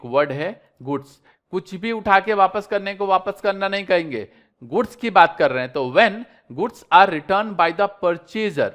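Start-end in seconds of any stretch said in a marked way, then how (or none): 5.9-8.7 slow dictation. Shown as a demonstration. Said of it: "reads definition slowly".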